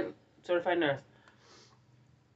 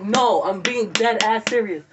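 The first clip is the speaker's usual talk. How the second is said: insistent; 3 semitones higher, 6 dB louder than usual. Retold or imitated. Insisting to friend.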